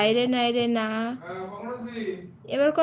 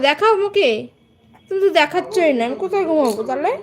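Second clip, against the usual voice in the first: louder and higher playful protest; mock whiny complaint; 3 semitones higher, 4 dB louder than usual. Mother teasing her child to show her, loud mock whine. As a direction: complain like a sulky kid, hammed up.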